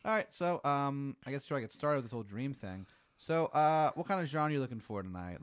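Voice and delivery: chatty clown opening his show, lightly played; clown dream host. Clown host asks the dreamer to pick a genre, lightly voiced.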